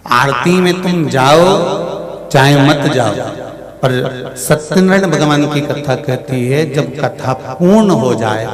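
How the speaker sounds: loud, emphatic katha delivery; full-voiced preaching. Storyteller preaching Satyanarayan katha to listeners, loud and emphatic. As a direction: preach it out to the whole hall.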